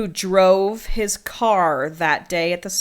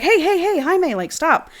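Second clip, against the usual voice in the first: calling out; 10 semitones higher than usual. Retold or imitated. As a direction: shout after him to stop. Calling after rushing Jaime.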